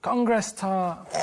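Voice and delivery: said very slowly and deliberately; slow code word. Pretend. Carl giving the code word on the pretend call, very slow. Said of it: "how's it going".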